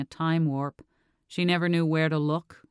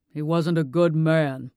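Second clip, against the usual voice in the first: a hint of a grave father, slow; lightly voiced stern father; 5 dB louder, slower than usual. A narrator's reading. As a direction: say it slowly like a father who finally admits it.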